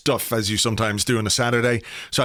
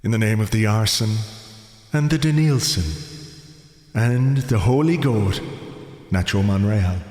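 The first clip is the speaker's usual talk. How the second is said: mock priest. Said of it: "we need some Sunday morning church vibes".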